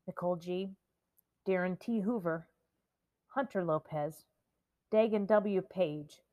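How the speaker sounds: a measured tribute, one name at a time; lightly solemn reading of names. Acted. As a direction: read each name with care, slowing on some.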